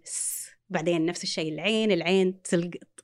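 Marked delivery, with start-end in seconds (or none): 0.0-0.5 س as a long bare hiss; first sound of a word, drawn out; child's sounding-out. Shown as a demonstration. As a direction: hold the s of س with no vowel. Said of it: "يبدأ الطفل يقول".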